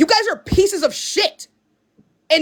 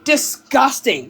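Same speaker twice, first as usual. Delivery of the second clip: slow disgust; 3 semitones lower, slower than usual. Real, not acted. Contempt at chat.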